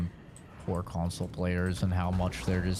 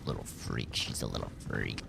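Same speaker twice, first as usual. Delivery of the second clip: 1 mock; 12 semitones lower, 8 dB quieter than usual. Real, not acted. Mocking Kenzie after impression.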